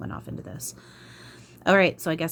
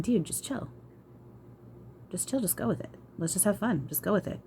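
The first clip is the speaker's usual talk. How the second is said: lightly raised, easygoing voice of a laid-back guide; voicing spirit guide Eric. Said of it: "and then he's going".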